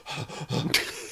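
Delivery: gasping heave before vomiting; mimed retching. Retold or imitated. Missus about to be sick after three whiskies, mimed retch. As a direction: imitate someone about to throw up. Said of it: "Then she goes".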